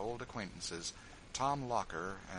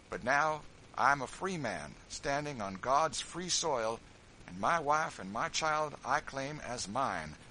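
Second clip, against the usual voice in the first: defiant George; 4 semitones higher, 6 dB louder than usual. A narrator's reading. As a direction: stand proud, free man. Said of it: "said George".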